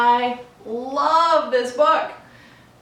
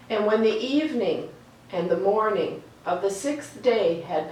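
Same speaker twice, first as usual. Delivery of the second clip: reading Genesis aloud. A narrator's reading. Reading the creation story to children, calm storytelling read. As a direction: let each line settle before the next.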